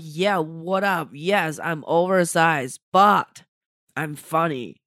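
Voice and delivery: slow, punchy confident bragging; cocky swagger. Acted. Comic boasting about new confidence, cocky swagger. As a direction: own it with slow, drawn-out swagger. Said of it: "I don't normally talk like that".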